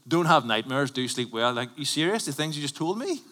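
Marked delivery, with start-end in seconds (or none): 0.1-1.5 quoting Crime Watch. Retold or imitated. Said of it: "It's like Crime Watch says".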